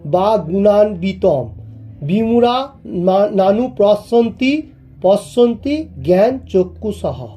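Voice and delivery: measured Sanskrit verse chant; shloka recitation. Shown as a demonstration. (শ্লোক পাঠের সুরে)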